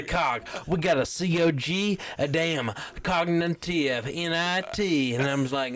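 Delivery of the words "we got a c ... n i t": slow letter-by-letter spelling of "C O G" and "N I T"; slow, stumbling spelling of "cognitive". Shown as a demonstration. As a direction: sound out each letter slowly, like a kid spelling a word. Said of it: "Can you spell either of those words?".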